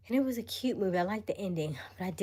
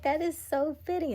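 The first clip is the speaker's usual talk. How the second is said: excited quote; 11 semitones higher, 6 dB louder than usual. Retold or imitated. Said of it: "I was like".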